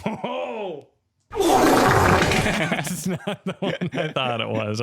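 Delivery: high-pitched helpless laughter; laughing hard. Real, not acted. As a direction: laugh through the words.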